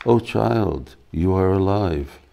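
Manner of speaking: a mother's overjoyed half-sob, understated; choked with emotion. Acted. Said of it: "says with a choked voice".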